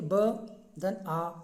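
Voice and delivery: each letter pulled apart slowly; teacher dictating letters slowly to a class; slow spelling. Shown as a demonstration. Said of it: "बालकः भी देखिए".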